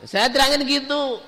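ordinary talk, nothing marked

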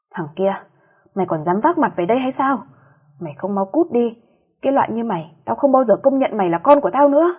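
scolding that builds to a loud furious shout; a mother chasing out her disgraced son, rising fury; angry scolding. Acted. Mother throws sandal at son. (mắng giận dữ, càng lúc càng to)

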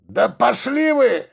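growled. A narrator's reading. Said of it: "прорычал кто-то внутри".

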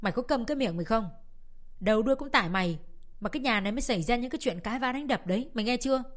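angry scolding. Acted. Older sister berating Xuân Lan for the fighting, angry. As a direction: tear into her little sister.

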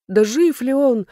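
high, loud, slow cry of dread; drawn-out horrified question; alarmed gasp. A narrator's reading. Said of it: "ахнула я".

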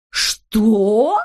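loud indignant Что; outraged interruption; shouting. A narrator's reading. Znaika shouts at Neznaika, outraged. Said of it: "закричал Знайка".

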